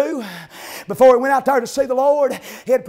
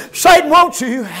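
loud proclamation; 7 dB louder than usual. Acted. Third take, again loud.

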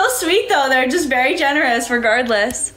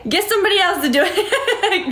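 higher, giggling "Get somebody else to do it"; laughing refusal; 5 semitones higher than usual. Real, not acted. Streamer turning down a viewer's dare, laughing and higher. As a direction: laugh off the request.

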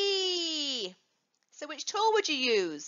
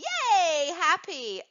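happy; 3 semitones higher, slower than usual. Shown as a demonstration. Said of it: "And happy".

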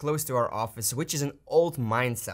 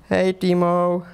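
calling out; 4 semitones higher, 8 dB louder, slower than usual. Real, not acted. Calling to Timo far back.

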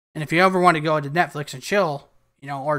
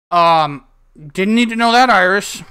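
loud reaction; 7 dB louder than usual. Pretend. Lan reacts loudly to Iris.

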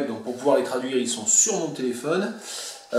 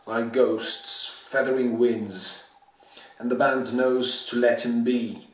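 poetry reading. Acted. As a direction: recite the poem in weighted, deliberate phrases. Reads the poem aloud in full.

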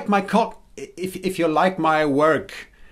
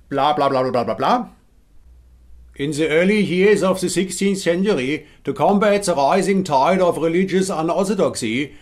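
Hessian accent. Shown as a demonstration. Sketch of the Inquisition bursting in, in Hessian accent. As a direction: bark the Spanish Inquisition lines in a Hessian accent. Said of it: "this is what a Hessian accent would sound like in English".

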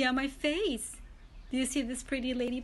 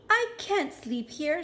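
ladybug voice; 4 semitones higher than usual. Acted. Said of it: "said the lazy ladybug".

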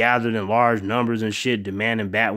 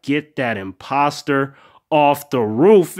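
angry and disappointed; 4 dB louder, slower than usual. Retold or imitated. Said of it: "he looked fucking angry and disappointed".

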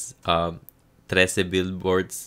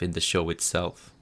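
whispered aside; 6 dB quieter than usual. Real, not acted. Trailing aside, dropped voice.

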